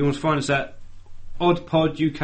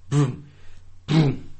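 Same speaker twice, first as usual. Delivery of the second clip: mouth-made vroom. Pretend. Making a reset noise, joking.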